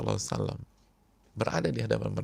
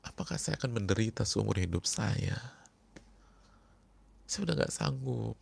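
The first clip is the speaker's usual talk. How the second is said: crying friend. Acted. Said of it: "sambil nangis dia bilang".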